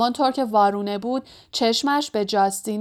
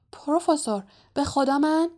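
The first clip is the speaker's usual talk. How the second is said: put-on higher-pitched, pleading young voice; anxious protest; 5 semitones higher than usual. A narrator's reading. Harry protests his innocence to the professor, high anxious plea.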